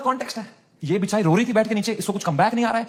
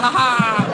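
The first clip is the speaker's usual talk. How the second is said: fake laugh; 4 dB louder, much slower than usual. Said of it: "बाहर कर रहे हैं".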